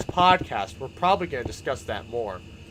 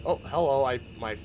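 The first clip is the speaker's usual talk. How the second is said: ordinary talk, nothing marked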